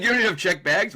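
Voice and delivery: high-pitched retold disbelief; mock surprise. Officer questions travelers about checked bags, mock surprise. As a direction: pitch it up, imitating a puzzled official.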